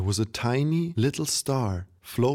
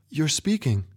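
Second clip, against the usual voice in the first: put-on surprised girl; 6 semitones higher than usual. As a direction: gasp out his name in disbelief. Girl startled grandpa speaks.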